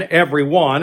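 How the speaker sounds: every in "every one" leaned on, one left light; a sermon stress on every. Shown as a demonstration. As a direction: press every, let one fall away. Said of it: "the emphasis is not on the word man or one".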